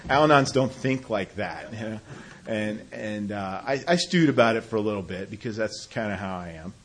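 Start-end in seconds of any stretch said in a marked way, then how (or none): 0.1-1.7 words laughed out, still giggling; laughing. Real, not acted. Joking that Al-Anons don't think that way, laughing. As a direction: let the laugh carry through the words.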